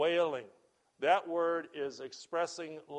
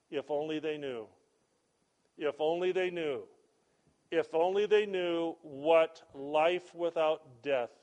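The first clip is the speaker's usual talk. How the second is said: building lament; 4 dB louder than usual. Acted. Preacher voicing the creator grieving over death, swelling. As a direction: let each repeat swell with longing.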